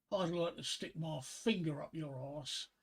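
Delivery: put-on slow, slurry-drunk delivery without real volume; a drunk's mock shout, dragged right out. Drunk leaning over the bar to the barmaid, slow mock shout. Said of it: "collapses over the bar and he shouts".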